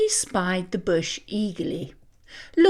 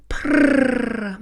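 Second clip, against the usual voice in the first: cat purr. Acted. Cat purring sound.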